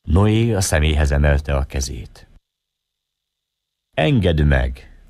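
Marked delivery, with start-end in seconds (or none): 3.9-5.0 slow, deliberate request. Acted. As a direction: take your time on each word. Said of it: "mondta lassan". (lassan, megfontoltan)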